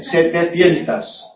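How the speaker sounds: Setecientas said slowly, ending in -as; slow correction. Shown as a demonstration. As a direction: stretch out Setecientas syllable by syllable. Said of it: "es la T, setecientas".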